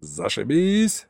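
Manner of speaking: yelling back. Acted. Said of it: "заорал в ответ Саня".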